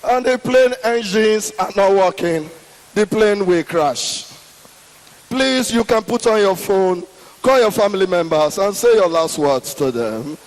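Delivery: low, mumbled pilot voice over the intercom; pilot's unclear crash announcement to the passengers; garbled pilot announcement. Retold or imitated. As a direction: mumble it like a muffled PA. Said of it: "you will not hear clear".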